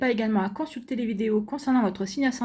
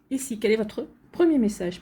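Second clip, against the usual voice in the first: hiccups. Real, not acted. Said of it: "Pardon, j'ai le hoquet".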